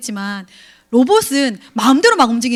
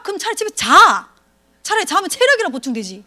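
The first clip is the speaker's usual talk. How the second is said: exasperated retort; 5 semitones higher than usual. Retold or imitated.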